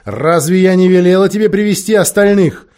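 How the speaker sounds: fearsome, angry queen; terrible voice. A narrator's reading. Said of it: "проговорила колдунья страшным голосом".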